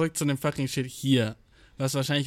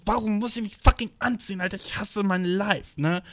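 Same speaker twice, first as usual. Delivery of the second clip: dragged-out grumble; 3 semitones higher than usual. Real, not acted. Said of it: "Ich bin einfach so wütend".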